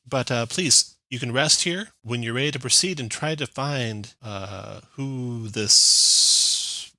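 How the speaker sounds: a hint of a busy researcher excusing herself; tiefling leader. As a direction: Insight tells the party to rest while she works, lightly voiced. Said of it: "Insight says".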